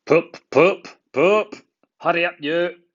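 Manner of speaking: high, loud cross engine toots; big engine crossly hurrying Thomas. A narrator's reading. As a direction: snap it out impatiently. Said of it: "said Gordon crossly".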